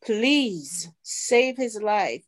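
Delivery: slow, drawn-out plea to God; retold prayer. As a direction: plead slowly in prayer, mildly. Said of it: "we started praying".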